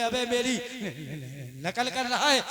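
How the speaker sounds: station master yelling that the traveller is mocking him; angry. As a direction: bark it as an accusation. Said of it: "बड़े गुस्से में".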